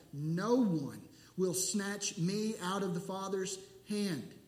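slow, with heavy stress on "No one"; emphatic. Shown as a demonstration. Pastor stressing the Greek "no one" to the congregation, emphatic. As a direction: lean hard on "No one", drawn out. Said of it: "It is just emphatic".

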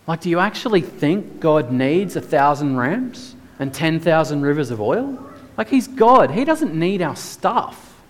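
high-pitched rhetorical disbelief, rising at the question's end; incredulous. Real, not acted. Preacher challenging the congregation on what God needs, incredulous. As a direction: press the absurdity, pitch leaping up.

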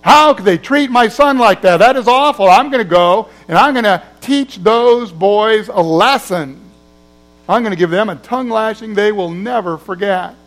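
retold angry outburst, slightly hammed-up; furious father. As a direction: vow revenge on the bullies, fuming. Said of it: "He was furious".

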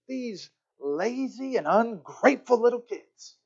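slow, acted-out parental disgust; exasperated grumbling. Father thinking about kids' undone chores, exasperated. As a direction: draw out each complaint. Father privately fuming at kids.

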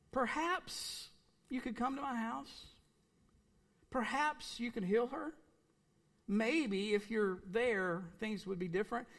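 mock-timid plea, pitch rising on each Perhaps; a meek, hesitant asking, not the real tone; hesitant polite plea; timid request. Shown as a demonstration. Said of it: "The language here is".

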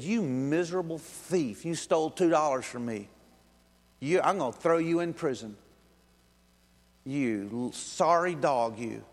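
irate. Acted. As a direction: berate him with stretched key words. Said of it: "he's irate over a guy".

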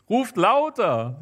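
high, drawn-out taunting call; mocking shout. A narrator's reading. Elia making fun of the priests, high mocking call. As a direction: call out slowly, egging them on. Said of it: "rief er".

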